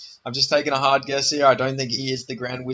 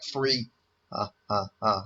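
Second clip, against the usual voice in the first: Count laugh; 4 semitones lower, 4 dB quieter, slower than usual. Retold or imitated. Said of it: "the Count from Sesame Street".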